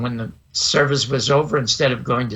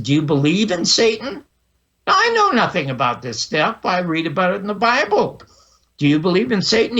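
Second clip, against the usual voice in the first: mild retold indignation; angry kid; 4 semitones higher than usual. Boy challenges the angry minister about Satan, mildly indignant. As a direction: challenge him like an angry child, lightly acted. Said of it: "Now I'm angry 'cause he's angry".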